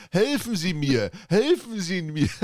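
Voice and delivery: hammed-up mock plea; bad acting. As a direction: drag out the lame cry for help. Imitating meme policeman.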